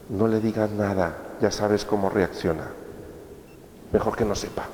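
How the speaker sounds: hushed warning. Retold or imitated. Relative warns family not to tell touchy person, hushed voice. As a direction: say it like a secret kept from a touchy relative. Family hiding news, confiding.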